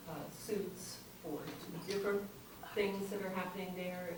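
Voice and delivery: off-mic, distant and faint; mic held too far away. Real, not acted. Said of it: "Can you pull the mic closer to your mouth".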